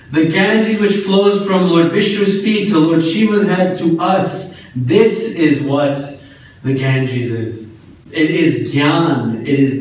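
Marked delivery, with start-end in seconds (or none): 0.1-7.7 said with vigor. Shown as a demonstration. Teacher showing the congregation how to invoke the Ganges, fervent. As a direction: pour devotion into each word. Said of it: "you must say it with more vigor".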